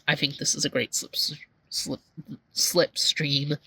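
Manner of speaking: stumbling over the word; tongue-tied. Real, not acted. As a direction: trip on the name Slipstream, restart twice. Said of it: "Tongue-tied a bunch today".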